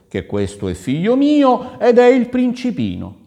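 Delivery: high, loud, emphatic promise; reassuring prince. A narrator's reading. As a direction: proclaim the boy your heir, voice lifted. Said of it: "la rassicurò il Reuzzo". (principe che rassicura, acuto e sonoro)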